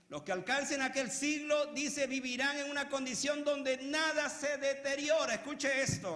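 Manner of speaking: loud, high-pitched pulpit proclamation; preaching. Real, not acted. Preacher quoting scripture to the congregation, forceful preaching.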